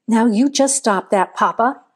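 firm. Acted. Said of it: "Missus Johnson said in a firm voice".

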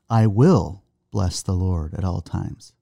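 I will bless with "will" leaned on, slow; slow, deliberate stress on "will". Shown as a demonstration. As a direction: lean on "will" in "I will bless the Lord". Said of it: "emphasize different parts of the scripture".

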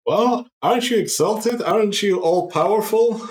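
high mocking woman voice. GM voices a mocking singer NPC.

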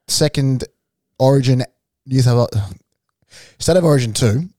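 halting, broken-up read with pauses; fumbled take. Shown as a demonstration. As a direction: stumble through it before restarting. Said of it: "I'll restart that".

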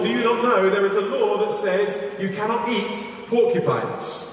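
high-pitched storyteller's reproach; mock admonishing. Villager warning a porcupine hunter, mock admonishing.

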